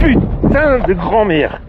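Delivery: startled, slow curse; spooked by the voice; scared swearing. Real, not acted. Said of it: "cette voix de malade".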